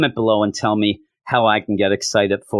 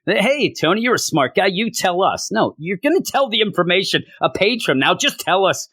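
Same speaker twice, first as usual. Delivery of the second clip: higher, lightly voiced pushy hero; mock pushy heroes; 6 semitones higher than usual. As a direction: poke at him, a touch of mock impatience. Characters bicker, voiced higher.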